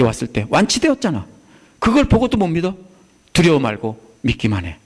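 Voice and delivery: urging, rising on the challenge; Jesus challenging the ruler to trust; voicing Jesus. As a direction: press him to believe what he saw. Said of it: "이런 말입니다".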